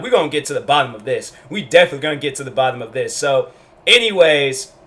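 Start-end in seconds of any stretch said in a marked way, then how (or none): 0.0-3.1 determined teacher, fast. Retold or imitated. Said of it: "she was like".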